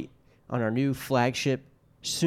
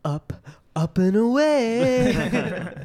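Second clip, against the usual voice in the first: heroic shout; 10 semitones higher, 6 dB louder, much slower than usual. Acted. Superhero style cry.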